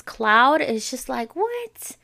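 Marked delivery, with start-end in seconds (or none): 1.4-2.0 incredulous what. Real, not acted. Disbelief at another celebrity news.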